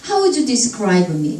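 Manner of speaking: "would you" merged into "wuju"; flowing, joined-up "How would you describe me"; linked speech. Shown as a demonstration. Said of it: "이렇게 됩니다".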